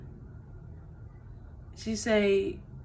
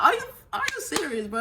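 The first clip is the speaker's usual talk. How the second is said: fast and higher, laughing through the question; laughing disbelief; 6 semitones higher, faster than usual. Retold or imitated. Mother asking her daughter if she's serious, laughing.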